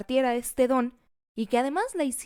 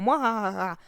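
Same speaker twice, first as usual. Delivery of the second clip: lightly voiced villain cackle; a playful hint of a Machiavellian laugh; evil laugh. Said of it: "su risa maquiavélica empieza así como". (risa malvada de villano, suave y juguetona)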